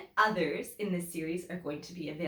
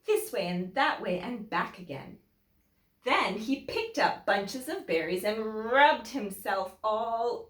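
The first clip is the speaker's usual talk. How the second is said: lively storybook reading with big swings; animated story voice for young listeners; reading to children; 2 semitones higher than usual. A narrator's reading. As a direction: read it to the class like a picture book. Teacher reads picture book aloud.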